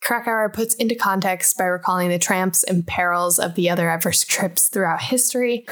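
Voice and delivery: measured book-blurb read-aloud; smooth read-out of a book summary. A narrator's reading. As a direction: read the back-cover summary evenly.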